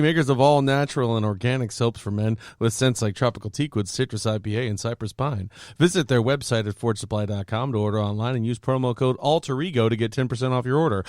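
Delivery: smooth, even read of ad copy; sponsor ad read. Real, not acted. Host reads soap sponsor to listeners, ad-read delivery. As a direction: rattle through the sponsor's copy evenly.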